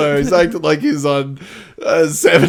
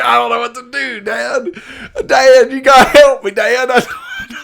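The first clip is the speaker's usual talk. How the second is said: pleading to Dad, rising to a high squeal; begging his father for help, a mock whine; whiny Clark; 4 semitones higher than usual. Clark begs his dad for help, whining high. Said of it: "He's like".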